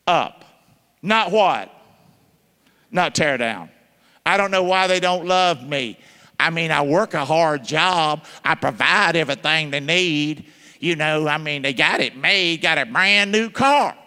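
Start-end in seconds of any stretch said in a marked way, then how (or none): 4.2-13.9 mock husband. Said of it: "But you know what you are?".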